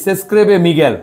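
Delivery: "Responda las preguntas" drawn out syllable by syllable; deliberate, slow classroom reading. Shown as a demonstration. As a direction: read the instruction slowly for students. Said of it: "মিগেল নামের বানানটা কি".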